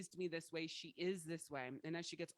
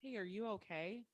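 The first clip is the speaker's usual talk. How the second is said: mock caring check-in; 4 semitones higher than usual. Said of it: "People don't see me as, like".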